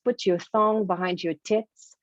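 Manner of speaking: "thong" for tongue, "tits" for teeth; retold mispronunciation. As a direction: say "tits" with a short vowel and ts ending, meaning teeth. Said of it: "not pronouncing the word teeth very well".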